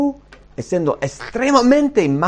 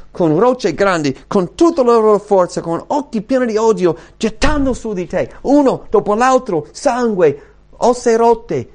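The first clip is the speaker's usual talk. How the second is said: higher and louder, building intensity; rising preaching; 8 semitones higher, 5 dB louder than usual. Acted. Preacher making the congregation feel the stoning, building loud. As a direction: drive it home like the stones are falling.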